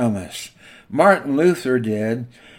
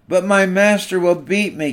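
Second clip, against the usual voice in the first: a mild, understated frightened gasp, pitched higher; 5 semitones higher than usual. Acted. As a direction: blurt it out in light alarm. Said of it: "gasped the German shepherd".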